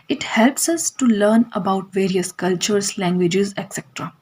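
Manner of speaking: very slow, word by word for notes; slow dictation. Shown as a demonstration. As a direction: read it out slowly for students to copy. Teacher dictating English note.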